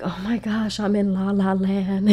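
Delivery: high, dreamy gushing; giddy in love. Retold or imitated. Self in a new relationship, gushing giddily. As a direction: swoon like you're floating on air. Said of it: "it literally goes from".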